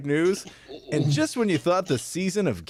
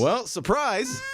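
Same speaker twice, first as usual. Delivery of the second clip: slow showy surprise; 6 semitones higher, slower than usual. Real, not acted. Announcing surprise with music.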